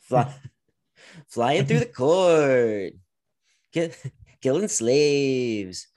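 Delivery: slow, loud, high villain voice; hammed-up villain voice. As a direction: drag out a slow, over-the-top villain line. Mocking the Baron's floating villainy.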